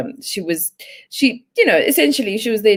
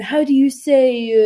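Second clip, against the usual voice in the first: put-on higher, pretentious French-accented English; fishing for a French word to sound posh; mock French accent, pitched up and hesitant; French-tinged English accent; 5 semitones higher than usual. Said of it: "with a French accent when she speaks English".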